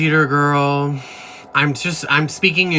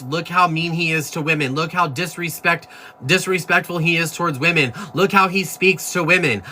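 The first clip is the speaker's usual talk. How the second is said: mocking critics; 5 semitones higher than usual. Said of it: "all of a sudden it's".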